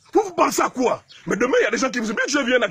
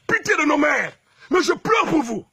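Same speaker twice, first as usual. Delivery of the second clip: anguished outcry; 4 semitones higher than usual. Real, not acted.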